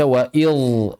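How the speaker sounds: "wa idz" with the dz thickened into zha; "wa idz" with a heavy, back-of-the-mouth buzz; mistaken heavy zha. Shown as a demonstration. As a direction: make "idz" dark and emphatic as a misreading. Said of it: "jangan dibaca".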